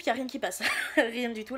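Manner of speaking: laughing through the words; amused laugh about the tiny letterbox. Real, not acted. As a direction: giggle at your own blunder. Laughing at her own failed plan.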